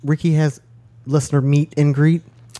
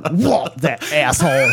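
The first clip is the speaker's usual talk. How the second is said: mock outrage. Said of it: "it's like".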